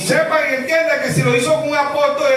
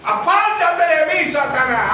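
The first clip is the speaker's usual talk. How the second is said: higher, slow rebuke; stern rebuke; 6 semitones higher, slower than usual. Retold or imitated. Preacher voicing Jesus rebuking Satan through Peter, slow and stern. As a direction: cast the devil away slowly. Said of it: "qué le estaba diciendo Pedro".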